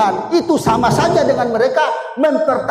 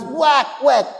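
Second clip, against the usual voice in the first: imitated newborn cry; 2 semitones higher than usual. Father retells seeing his baby crying, imitated wail. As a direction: imitate a newborn's first cries. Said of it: "saya lihat anak saya nangis".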